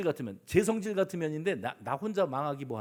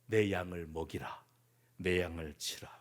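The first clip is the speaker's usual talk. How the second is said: low, soft, tender charge; gentle commission; 11 semitones lower, 5 dB quieter than usual. Acted. Jesus entrusts his sheep to forgiven Peter, gently hushed. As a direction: entrust it softly, sinking toward a whisper.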